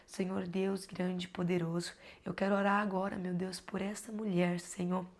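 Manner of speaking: steady, earnest prayer voice; heartfelt prayer. Real, not acted. Praying for mothers suffering in postpartum, earnest prayer. Prays aloud for viewers.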